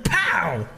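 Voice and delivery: punchy "pow!" like a sudden crash; exclaimed pow. Retold or imitated. Preacher narrating a surfer's wipeout to the church, exclaimed pow. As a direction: hit it as a sudden impact.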